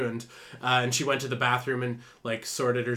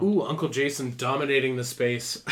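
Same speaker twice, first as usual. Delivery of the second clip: sports announcer. Pretend. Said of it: "I said that like a sports announcer".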